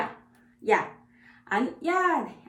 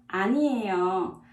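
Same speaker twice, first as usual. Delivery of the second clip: quick model; 3 semitones lower, faster than usual. Shown as a demonstration. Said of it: "In Korean".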